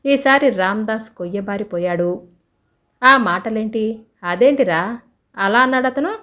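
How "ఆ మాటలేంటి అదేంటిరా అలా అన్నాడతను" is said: rattled questions; upset. Acted. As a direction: shaken and a bit indignant, demanding why. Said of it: "upset అవుతూ లక్ష్మణ్ అడిగాడు". (కలవరపడుతూ అడగడం)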